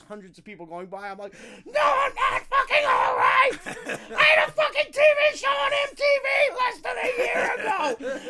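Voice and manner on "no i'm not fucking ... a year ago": screaming breakdown. Retold or imitated. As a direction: yell it out like you're snapping in public. Costumed man's on-street breakdown.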